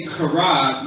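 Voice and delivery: "kara" with the k scraped hard in the throat; forceful throaty K. Shown as a demonstration. Teacher contrasting Hebrew words, "kara" forced and throaty. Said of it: "you're saying it with force".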